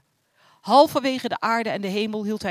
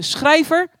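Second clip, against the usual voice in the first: loud, high summoning call with a rise; 7 semitones higher, 7 dB louder than usual. A narrator's reading. The Most High summons Schrijver, calling loudly and high. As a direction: call the name out across the hall. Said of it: "riep de Allerhoogste".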